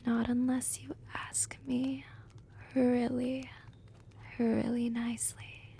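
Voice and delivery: soft, half-whispered tease; hushed, playful condition; coy teasing. Acted. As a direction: draw it out softly and coyly. Teasing promise before the joke.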